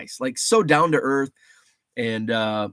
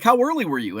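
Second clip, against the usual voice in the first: mock wife voice; 8 semitones higher, 3 dB louder, faster than usual. Wife voiced in retold texts.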